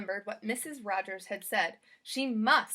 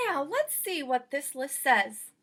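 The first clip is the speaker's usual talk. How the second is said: slow, louder, curious maid; Amelia Bedelia; 2 semitones higher, 5 dB louder, slower than usual. Acted. Maid checking her list, curious. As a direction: lean in to read the list.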